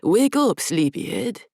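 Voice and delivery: teasing a bound captive awake; imitating Adrian. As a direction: taunt him awake in a borrowed voice. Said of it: "imitated Adrian's voice".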